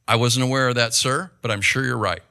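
low-key, respectful answer to an officer; polite deference. Shown as a demonstration. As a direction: say it meekly, no attitude at all.

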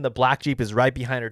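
normal talking voice

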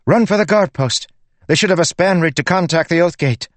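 high, loud, urgent female voice; urgent order. A narrator's reading. Lynn urging the messenger to run for the guard post, high and loud. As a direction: send her off at once.

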